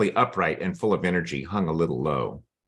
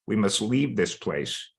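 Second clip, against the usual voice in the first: real, understated emotion while reading; a little emotional. Real, not acted. Reader moved by Foxy G's plea to flee, a little emotional. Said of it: "I get a little emotional reading this story".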